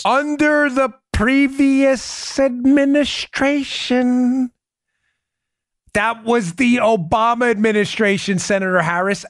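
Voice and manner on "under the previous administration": each word drawn out slowly, mocking; slow mocking repeat. You hear what he said?.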